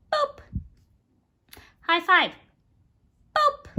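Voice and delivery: loud, high playful call; excited cheer. Real, not acted. Owner cheering her parrot's high five, loud and excited.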